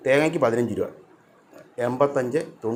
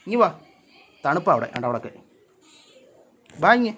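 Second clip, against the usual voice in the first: calling the cat; 3 semitones higher, 3 dB louder, faster than usual. Real, not acted.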